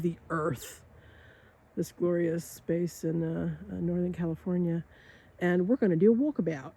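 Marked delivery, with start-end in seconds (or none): 5.4-6.7 put-on a light, jokey stab at an Australian accent; mock Australian accent. Guide joking to viewers in a mild Australian accent. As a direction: toss off walkabout in a half-hearted Aussie accent. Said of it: "really good or really bad Australian accent".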